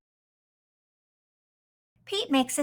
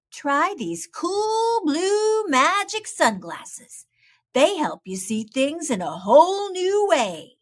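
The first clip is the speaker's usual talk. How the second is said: Pete the cat, encouraging; 5 semitones higher, 4 dB louder than usual. Acted. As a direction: coax a friend with a cool idea. Pete offers the sunglasses.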